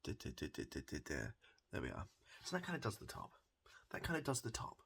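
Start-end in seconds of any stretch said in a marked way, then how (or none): 2.4-4.8 whisper. Real, not acted. Whispered aside during haircut.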